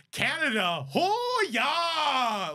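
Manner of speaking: high, loud, drawn-out Canadian holler; mock Canadian accent. Mimicking friends who mock the accent, hammed-up Canadian yell. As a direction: caricature a Canadian with a long sliding whoop. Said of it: "I can hear your voice coming through".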